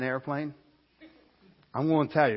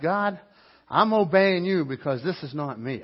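nervous prayer; 3 semitones higher, 7 dB louder than usual. Retold or imitated. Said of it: "I'm like".

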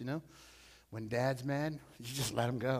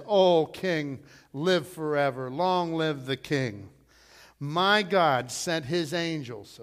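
Daniel; 6 dB louder, slower than usual. Retold or imitated. Daniel answers the king.

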